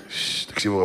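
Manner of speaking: whispered shush to the crowd. Real, not acted. Rabbi hushes his audience mid-sermon, whispered shush. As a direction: hush them, whispered. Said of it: "quiets the audience".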